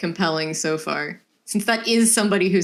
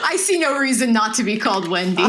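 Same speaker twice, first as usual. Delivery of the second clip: laughing. Real, not acted. Laughing over name choice.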